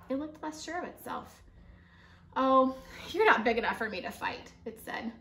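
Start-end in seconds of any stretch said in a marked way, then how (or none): 2.4-4.5 boastful. Acted. Grouchy ladybug boasts.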